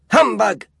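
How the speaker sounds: loud, high dismissive humbug; scornful grunt. A narrator's reading. Scrooge brushing off Christmas greetings, scornful. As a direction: sneer it out.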